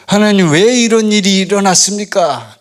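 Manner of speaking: 하나님께 따지듯 흉내 내어 묻기; 따지는 말투. Retold or imitated. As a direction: imitate someone demanding answers from God. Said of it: "따지잖아요". (원망 섞어 따져 묻는 흉내)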